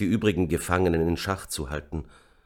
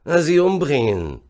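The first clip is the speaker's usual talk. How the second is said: high, loud outburst; loud snapped answer; 9 semitones higher, 7 dB louder than usual. A narrator's reading. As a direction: blurt it out forcefully. Officer snaps out a brutal order. (laut herausgeplatzt)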